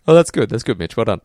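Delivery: hammed-up condescension, mimicking the co-host; mock condescending praise. Host throwing the co-host's praise back, mock condescending. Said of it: "So condescending".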